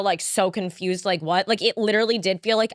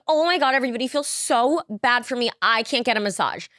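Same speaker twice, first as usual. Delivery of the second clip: a higher, whiny parody of "I can't get a massage"; mock self-pity; 4 semitones higher than usual. Parodying how critics heard her post, mock whiny. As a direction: play the spoiled complainer she wasn't being. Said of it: "I didn't mean that".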